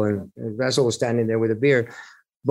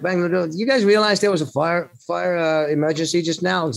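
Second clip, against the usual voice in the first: raised pitch, incredulous retelling; higher-pitched, mildly alarmed mock urgency; urgent retold alarm; 7 semitones higher than usual. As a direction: act out alerting oblivious friends to an emergency. Urgently telling partying bandmates about fire.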